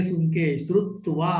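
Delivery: ordinary delivery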